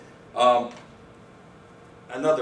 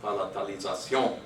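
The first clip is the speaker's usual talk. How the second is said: "palatalisation" said the French way, stress on the last syllable; French final stress; 3 dB quieter than usual. Shown as a demonstration. Lecturer illustrating French stress rule, final stress. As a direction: land on the end of "palatalisation", French-style. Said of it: "always goes on the last thing".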